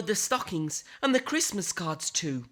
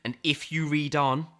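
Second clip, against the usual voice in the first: spooky warning; 7 semitones lower than usual. A narrator's reading. Narrator warns reader, spooky aside.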